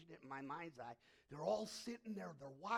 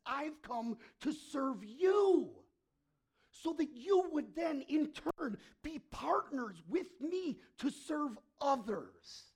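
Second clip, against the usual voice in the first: higher, louder, slow solemn proclamation; Jesus speaking; 9 semitones higher, 14 dB louder, much slower than usual. Acted. Jesus telling disciples why he came, slow and loud. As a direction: declare it slowly like Jesus. Preacher voicing Jesus' words.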